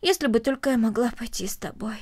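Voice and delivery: wistful, softened regret trailing away; heavy-sighing. Acted. Girl longing to go along to the stable, sighing wistfully. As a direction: let it sink away like a sigh. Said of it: "тяжело вздохнула Корнели".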